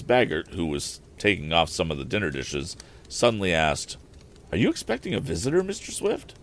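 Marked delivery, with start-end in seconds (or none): 4.5-6.3 much higher scolding housekeeper voice; a prim housekeeper protecting her tablecloth; fussy housekeeper. Acted. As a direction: housekeeper scolding the inventor, high-pitched. Housekeeper asks suddenly.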